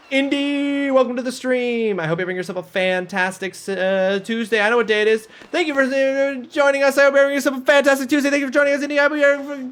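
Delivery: put-on high, bright East Coast Canadian accent. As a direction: greet chat in a thick Canadian accent. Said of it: "I'm doing my Canadian accent right now".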